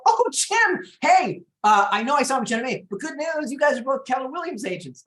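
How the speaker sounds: high mock sheepish homeowner; awkward client. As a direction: cover the awkwardness with forced cheer. Client awkwardly explains rival signed.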